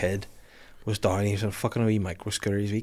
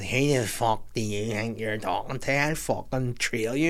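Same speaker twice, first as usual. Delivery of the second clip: a hint of a slow menacing hardman; slow threatening growl, lightly voiced; man threatening Catherine at soft play, lightly voiced menace; aggressive man; 5 dB quieter, slower than usual. Retold man's aggressive threat.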